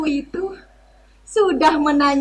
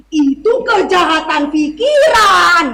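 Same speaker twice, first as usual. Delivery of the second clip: hammy stage actor; 3 dB louder than usual. Acted. Officer accusing the narrator.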